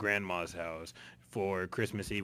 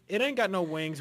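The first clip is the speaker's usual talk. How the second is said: excited; 10 semitones higher, 6 dB louder than usual. Real, not acted. Punchline in word game.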